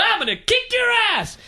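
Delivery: high, shouted wrestling-promo threat; mock ranting. Wrestler ranting mid-strut in his promo, mock raving shout. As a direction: imitate a wrestler raving at full tilt. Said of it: "he's ranting, and he's raving".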